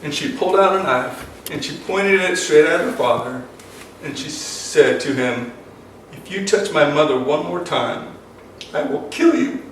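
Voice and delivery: real emotion rising through the retold threat; choked up as the story peaks; emotional. Real, not acted. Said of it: "Sorry, I'm getting so emotional".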